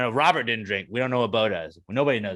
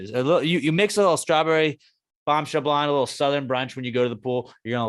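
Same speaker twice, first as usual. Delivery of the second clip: excited ad read; 4 semitones higher, 4 dB louder than usual. Acted. Sponsor ad read.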